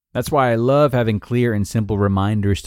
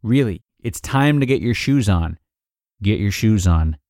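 firmer insistence. Acted. Parent's requests growing firmer.

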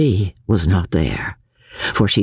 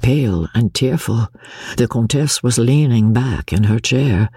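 normal talking voice

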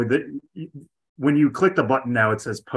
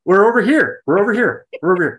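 calling out; 8 semitones higher, 6 dB louder than usual. Pretend. Calling out to the dog.

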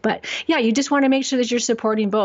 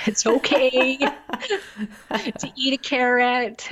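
laughing; 4 semitones higher, slower than usual. Real, not acted. Laughing reassurance about eating carrots.

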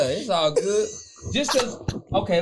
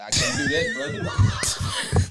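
laughing shout; much slower than usual. Real, not acted. Laughing refusal to post.

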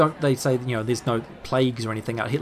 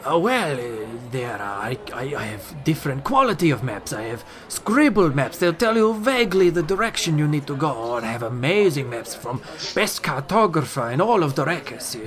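lightly voiced merchant. Merchant sells maps.

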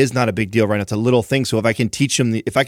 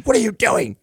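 mock wife's voice, pitched much higher; imitating his wife walking in, in a put-on voice; 12 semitones higher than usual. Wife walking in on dad and crying baby, mock high voice. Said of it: "and Katrina comes walking in".

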